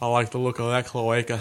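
weird, loud blend of Scottish and New Zealand accents. Joking about English people calling women birds, weird Scottish New Zealand accent. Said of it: "weird, like, Scottish New Zealand accent?".

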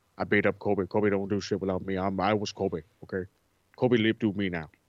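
very low, deep, boastful voice. Acting out a sit-down apology after a glass of water: Shaq impression. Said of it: "That was my Shaq impression".

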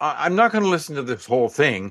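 ordinary talk

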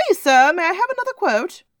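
very high, loud, squeaky little pleading voice. Asking for another quote, in a Tiny Tim begging voice. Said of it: "I'm going to take out that accent. That was terrible".

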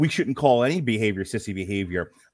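ordinary delivery

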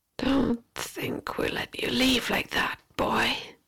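whispered, agitated, angry fairy hiss. Reading a story, an unseen voice speaks to the boy, hissing, agitated, angry. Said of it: "The voice hissed, now sounding agitated, angry".

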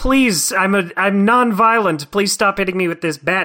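play-acted, high-pitched pleading and begging. Voicing a cartoon parrot being hit with a bat: mock begging to stop. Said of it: "he's begging him to stop".

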